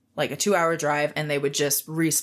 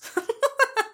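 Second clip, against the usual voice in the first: laugh. Real, not acted. Laughs after judging boss.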